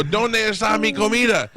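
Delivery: high, loud comic exasperation; imitating a frustrated phone shout. Customer struggling to make driver understand, exasperated high shout.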